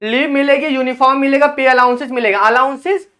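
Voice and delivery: usual speaking voice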